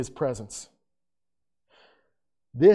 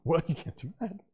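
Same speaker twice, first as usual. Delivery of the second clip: crowd objecting; 7 dB quieter than usual. Retold or imitated. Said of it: "everybody around's like".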